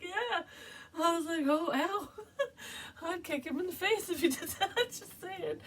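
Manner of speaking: high, giggly voice through laughter; can barely get it out for laughing; real fit of the giggles; laughing hard. Real, not acted. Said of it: "I'm laughing so hard".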